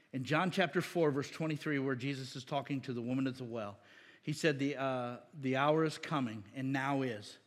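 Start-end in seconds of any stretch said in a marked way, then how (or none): none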